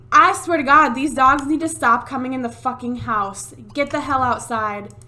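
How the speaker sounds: loud furious yell at the dogs; real angry shout. Real, not acted. Yelling at dogs indoors.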